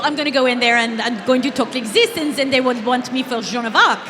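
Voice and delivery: light put-on French accent; playful French-accented audition voice. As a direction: talk like a mock Frenchwoman. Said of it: "Can you do a French accent".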